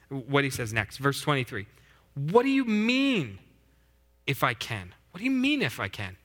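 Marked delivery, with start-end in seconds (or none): 2.1-4.9 high, slow incredulous question; incredulous Jesus. Acted. Preacher as Jesus, incredulous at the father's doubt. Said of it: "Jesus answered". 5.1-6.2 incredulous. Acted. Preacher re-voicing Jesus, disbelieving the father. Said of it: "Jesus answered".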